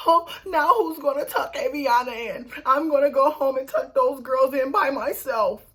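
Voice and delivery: high mock whine; tearful self-pity. Sarah left lonely worrying about bedtime, mock tearful. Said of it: "Sarah is standing there crying, lonely".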